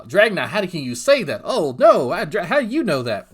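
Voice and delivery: imitating a rival breaking down in tears; mock crying. Mocking the crying YouTuber who says he quits: hammed-up whimpering plea. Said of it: "he'll start crying".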